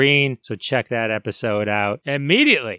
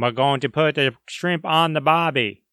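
badly faked Australian accent; horrible Australian accent. Host trying an Aussie line about his guest, horrible Australian accent. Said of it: "that was a horrible Australian accent".

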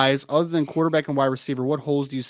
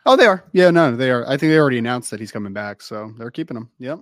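sarcastic; 6 dB louder than usual. Real, not acted. Co-host answering whether the coach is being kept, sarcastic. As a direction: feign total conviction, sarcasm oozing out. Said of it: "sarcasm is just oozing out of your pores".

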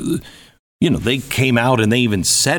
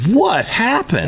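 mock bafflement; 12 semitones higher, slower than usual. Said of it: "and you're like".

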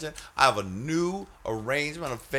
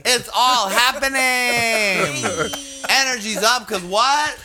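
excited; 11 semitones higher, 4 dB louder than usual. Acted. Hyped show opening.

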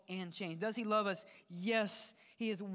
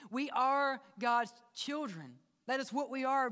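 emphatic proclamation; 5 semitones higher, 3 dB louder than usual. Real, not acted. Emphatic sermon climax.

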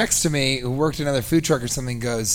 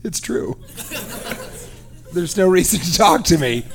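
put-on imagined defeated girl; 4 semitones higher than usual. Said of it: "she was like".

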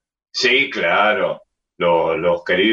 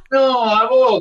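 quick retort; 4 dB louder than usual. Retold or imitated. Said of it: "Mancilla dijo".

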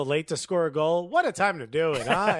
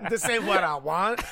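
mock French accent; 3 semitones higher than usual. Players stuck in New Jersey, joked about in a mock French accent. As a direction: ham up a French Canadian voice. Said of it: "I'm French".

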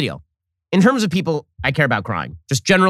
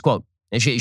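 ordinary talk, nothing marked

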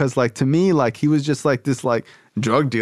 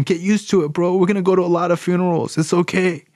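higher, insistent imitation; tough encouragement; 5 semitones higher than usual. Sponsor urging a caller nine months clean, tough encouragement. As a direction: press the point home with a raised pitch.

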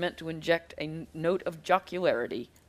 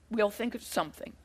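softer, half under the breath; muttered; 8 dB quieter than usual. A narrator's reading. Avery, cowed by her sister, mutters softly. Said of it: "Avery muttered".

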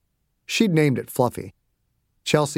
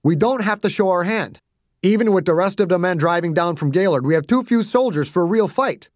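lightly voiced, higher-pitched officer; general arguing his case; 5 semitones higher than usual. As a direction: reason firmly with a young commander.

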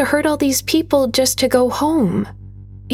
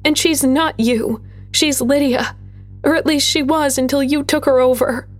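put-on higher, quick indignant young voice; girl angrily correcting the creature; spitting retort; 6 semitones higher than usual. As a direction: snap back at the monster in defiance. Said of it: "Gwen spat".

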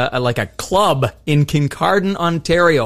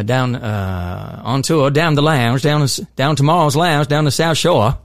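put-on Nova Scotia accent. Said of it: "my Nova Scotia's".

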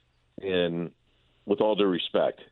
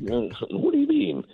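disbelief; 11 semitones higher, slower than usual. Retold or imitated. Retold pressing GM for details.

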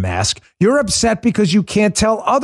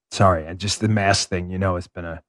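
quiet aside; 7 semitones lower, 5 dB quieter than usual. Real, not acted. Drops into a weary aside.

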